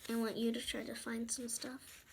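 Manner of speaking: soft unvoiced whisper. Real, not acted. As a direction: whisper the instruction. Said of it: "whispered instruction".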